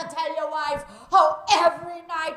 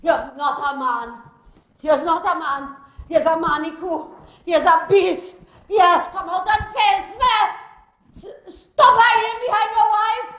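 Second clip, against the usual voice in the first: angry Caribbean woman yelling curses at a man's house; furious cursing woman; 11 semitones higher, 8 dB louder than usual. Acted. Jilted woman outside Selwyn's house, furious yelling. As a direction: rage at him, loud and raw.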